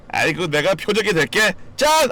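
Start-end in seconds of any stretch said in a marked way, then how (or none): 1.8-2.1 playful ta-da. Acted. Playful ta-da at viewer.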